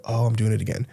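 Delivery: soft, muted "oh, I'm doing it again"; quiet self-catch. Pretend. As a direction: say it to yourself under your breath. Being your own coach.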